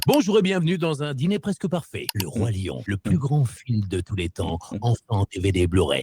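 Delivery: big network voice-over read; TV trailer voice-over. Shown as a demonstration. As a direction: sell it like a TV show trailer. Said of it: "si je te fais".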